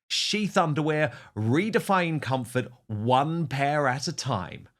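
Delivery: lively, emphatic podcast ad delivery; sponsor ad read. Acted. Host pitching sponsored underwear to listeners, upbeat ad read. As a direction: sell it with big swings on the key words.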